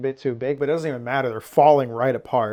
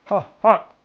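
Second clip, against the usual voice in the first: louder yelp through a hot bite; mouth full of hot food; 7 semitones higher, 4 dB louder than usual. Real, not acted. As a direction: blurt it out around scalding food. Tasting scalding soup, mouth full.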